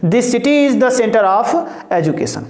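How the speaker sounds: slow, clearly spaced English sentence; slow answer read-out; slow dictation. Shown as a demonstration. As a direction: read the answer out slowly for copying. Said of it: "reads finished English sentence slowly".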